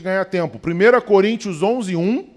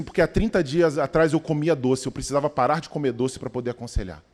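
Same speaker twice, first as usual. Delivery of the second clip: put-on wise old man; 5 semitones lower, 3 dB quieter than usual. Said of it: "Ele disse assim".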